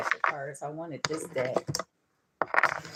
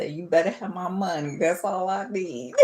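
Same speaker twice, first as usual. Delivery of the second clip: getting emotional. Real, not acted. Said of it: "I can't be getting emotional".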